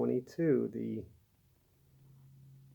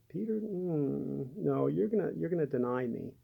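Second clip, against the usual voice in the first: gentle; 3 semitones higher than usual. Acted. Jesus telling Peter he will deny him, gently. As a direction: let him down gently, with a lingering hesitant hum. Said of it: "Jesus is so gentle. He is so gentle".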